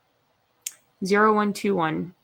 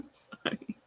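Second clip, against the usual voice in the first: whispered sorry; 13 dB quieter than usual. Real, not acted. Apologising after laughing.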